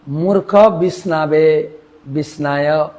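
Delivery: বিষ্ণায় said "bis-naa-yo" with long aa; unlearned mispronunciation. Shown as a demonstration. Teacher quotes the unlearned, mispronouncing বিষ্ণায় as "bisnaayo". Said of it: "সঠিক উচ্চারণ করতে পারে না".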